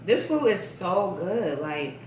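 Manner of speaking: talking while chewing; mouth full. Real, not acted. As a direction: say it around a bite of food. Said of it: "I'm talking and eating".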